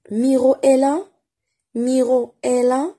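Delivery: MIRO EST LÀ held high, rising further on LÀ; question intonation. Shown as a demonstration. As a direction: model MIRO EST LÀ as a question with a lifted ending. (MIRO EST LÀ en question, intonation montante)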